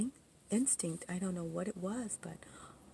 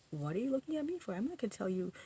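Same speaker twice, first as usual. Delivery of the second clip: quick, higher and sharp; defensive retort; 4 semitones higher, faster than usual. Retold or imitated. To the staring friends, quick indignant retort. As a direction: snap it back at them, indignant. Addressing imagined accusers.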